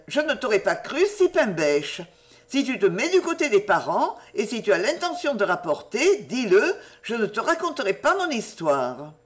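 lightly voiced girl, teasing and put out; huffy young Jenny. Jenny chiding Lucienne for siding with the parents, lightly huffy. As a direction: tease her, then threaten to keep the secret.

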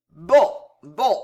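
put-on disgruntled drunk muttering; grumbling. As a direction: grumble it grudgingly. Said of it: "grommela Gillot".

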